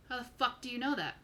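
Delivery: mildly incredulous probing question; probing demand. Acted. Big guy checks out a stranger, mildly incredulous. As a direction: ask it pointedly, without real aggression. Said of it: "not aggressively. He's, he's really peering".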